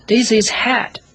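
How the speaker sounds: a high, flat-sure grown-up voice; grown-up's answer. Acted. Grown-up answering the pilot, mock high voice. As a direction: answer like a dull grown-up who sees only a hat. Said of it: "the grown-up always answered".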